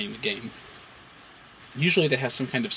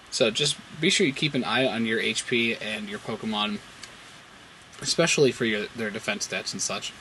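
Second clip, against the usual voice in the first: talking while chewing gum; words round a wad of gum. Real, not acted. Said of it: "I actually have some gum in my mouth".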